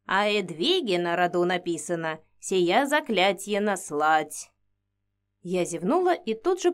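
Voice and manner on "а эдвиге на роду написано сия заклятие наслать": put-on old woman whispering. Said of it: "задумчиво шептала мне на ухо Инга".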